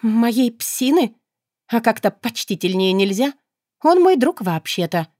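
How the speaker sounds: indignant, rising to a sharp retort; offended, snapping back at the demon; displeased snap. Acted. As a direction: bristle at the insult to her dog. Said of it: "огрызнулась недовольно".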